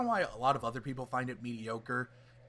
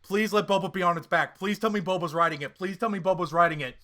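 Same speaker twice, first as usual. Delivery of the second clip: eager, louder pleading to dad; excited pleading; 2 semitones higher, 6 dB louder than usual. Retold or imitated. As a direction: beg like a hyped fan. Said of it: "I dead ass said to my dad".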